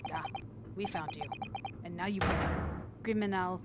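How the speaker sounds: halting, hammed-up Russian accent. Russian guy threatening the found man, mock Russian accent. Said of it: "it's the Russian guy".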